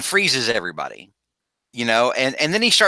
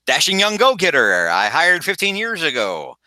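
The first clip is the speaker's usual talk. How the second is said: gruff newspaper editor; 5 semitones higher than usual. Acted. Editor greets returning hire.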